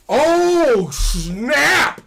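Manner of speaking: high, loud burst of surprise; excited exclamation. Real, not acted. Realizing the new guy is finally at his door, excited loud burst. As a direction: blurt it out like it just clicked.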